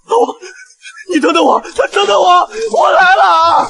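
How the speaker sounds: crying out while running to him; desperate shouting. Acted. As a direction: call after him in panic. Running to dying friend.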